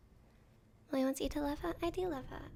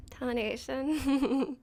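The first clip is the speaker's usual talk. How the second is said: cowboy drawl; much slower than usual. Pretend. Joking about cowboys.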